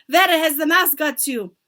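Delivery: high, loud demand; sharp accented witch question; snapping witch. A narrator's reading. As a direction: demand it impatiently. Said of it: "sneering, searching the platform".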